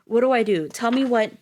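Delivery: husband panicking beside his dying wife; panicked. A narrator's reading. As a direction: beg for instructions. Husband panicking over the injector.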